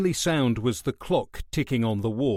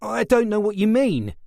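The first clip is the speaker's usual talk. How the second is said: much higher and louder, panicky; frightened stammer; 10 semitones higher, 5 dB louder than usual. A narrator's reading. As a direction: blurt it out in fear. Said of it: "he stammered".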